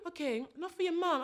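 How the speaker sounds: guilt-tripping mum. Retold or imitated. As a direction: sound hurt to make her give in. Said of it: "And don't be like".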